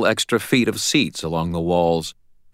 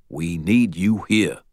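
slow stern insistence; slower than usual. Acted. Ebenezer insisting.

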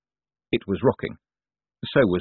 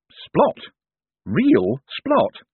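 excited; 13 semitones higher, 3 dB louder, much slower than usual. Acted. Hubert excited.

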